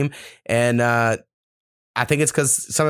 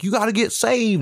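put-on preachy kid; 9 semitones higher than usual. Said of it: "come back from church camp and be like".

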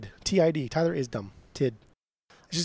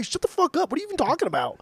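exasperated yell; 10 semitones higher, faster than usual. Real, not acted. Yelling at cohost mid-argument.

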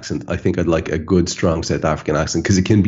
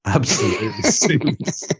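laughing through the words, pitched up; real laughter; 6 semitones higher than usual. Real, not acted. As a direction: crack up while praising it. Cracking up at the accent act.

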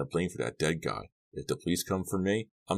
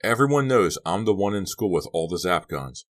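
loud rant climbing higher; heated shouting; 5 semitones higher, 5 dB louder than usual. A narrator's reading. Boy fearing police will blame him, shouting heatedly. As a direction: build to an angry, high-pitched shout. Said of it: "shouting in Suki's face".

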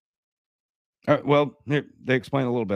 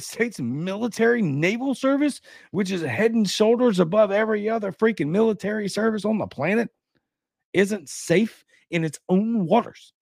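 higher-pitched, emphatic disbelief; incredulous; 5 semitones higher than usual. Real, not acted. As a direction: challenge the claim as hard to believe. Disbelief at alarming military claim.

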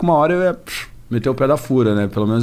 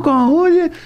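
DJ drop voice. Retold or imitated. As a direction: call it out like a funk DJ tag. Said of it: "um dos primeiros caras que eu vi fazendo".

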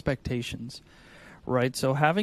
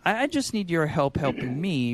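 humble ask for help; 2 semitones higher than usual. Shown as a demonstration. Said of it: "The difference of intentionality".

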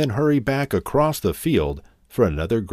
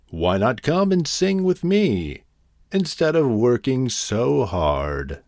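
teasing; 4 semitones higher than usual. Acted. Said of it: "teased the grasshopper".

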